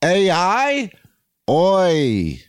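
a hint of a Jewish grandma's Yiddish accent; lightly voiced Yiddish grandma, amused. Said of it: "Jewish grandma commenting on runaway technology".

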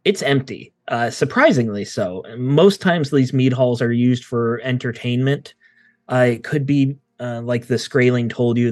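calm, atmospheric recap of the scene; game master scene setting. Acted. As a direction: set the stormy mood for the players.

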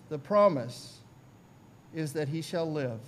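usual speaking voice

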